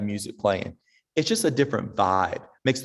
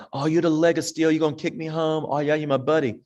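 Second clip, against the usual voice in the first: playful flattery; 5 semitones higher than usual. Retold or imitated. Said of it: "And so I'm like".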